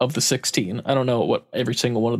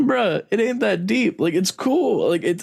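amused exasperation; 4 semitones higher than usual. Retold or imitated. Exasperated plea to mom.

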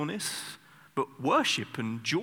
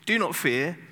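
louder, higher and firmer; stern command; 4 semitones higher, 5 dB louder than usual. Shown as a demonstration. Moses warning the scared people, louder and firm. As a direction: lay it down as a warning. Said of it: "But then he says this".

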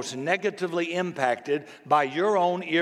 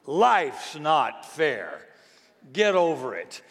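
parent's retort; slower than usual. Retold or imitated. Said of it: "what was their response".

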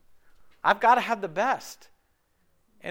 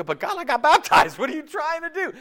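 higher, whiny mock protest; 9 semitones higher, 5 dB louder than usual. Preacher mocking a sinner who argues with God, whiny. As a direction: plead like a caught sinner. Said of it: "You go".

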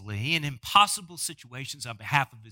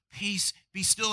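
calm command; 2 semitones higher than usual. Retold or imitated. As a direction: speak peace over the storm. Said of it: "with a simple phrase".

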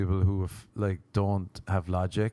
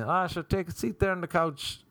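imagined sober self; 4 semitones higher than usual. Acted. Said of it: "In my head, I was saying".

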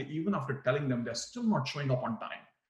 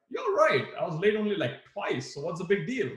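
much higher, brushing it off; defensive, dismissive; 5 semitones higher than usual. Shown as a demonstration. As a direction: shrug off the manager's point. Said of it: "how you say them".

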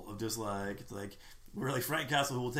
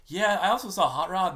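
slow, louder, mock-weary retort; dry sarcasm; 6 semitones higher, 7 dB louder than usual. Explaining to a friend why he skipped the film, with dry sarcasm. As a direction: drag it out like a grudge. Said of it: "I'm just like".

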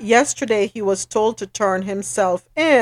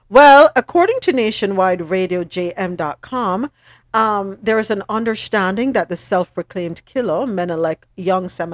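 measured radio news bulletin; news read. Acted. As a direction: read the report out to listeners. Reads a news report.

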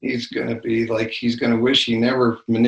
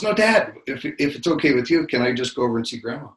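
put-on whiny kid plea; 3 semitones higher, 4 dB louder than usual. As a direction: beg like a ten-year-old who won't take no. Grandson pleads with his father.

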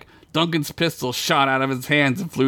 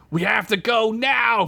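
high-pitched rallying shout; urgent yell; 10 semitones higher than usual. A narrator's reading. Fred pulling friends away, urgent yell. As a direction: yell to get everyone moving. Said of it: "Fred yelled".

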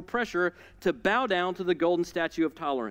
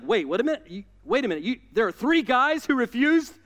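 fired-up king; 5 semitones higher, 4 dB louder than usual. Retold or imitated. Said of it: "He's like".

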